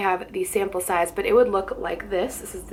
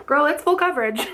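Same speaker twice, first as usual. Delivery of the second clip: surprised; 6 semitones higher than usual. Real, not acted. Shocked by the coverage.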